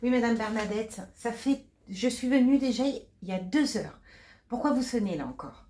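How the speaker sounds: curt, annoyed nurse; impatient nurse. Acted. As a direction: brush off the patient's call. Nurse scolds patient in acted scene.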